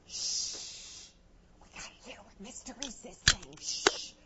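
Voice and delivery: put-on kids shushing each other; hushing. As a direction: shh them so Mister Reese can be heard. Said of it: "You can hear a pin drop".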